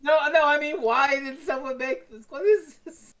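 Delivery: can't believe what you're seeing; baffled disbelief. Real, not acted. Baffled by a strange post.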